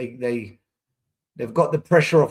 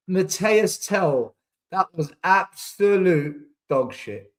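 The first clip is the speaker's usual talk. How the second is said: slow disgust; much slower than usual. Real, not acted. Fan disgusted with winger.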